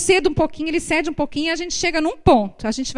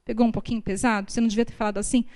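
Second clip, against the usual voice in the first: gentle private word; 3 semitones lower, 7 dB quieter, much faster than usual. Retold or imitated. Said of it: "aí eu falo".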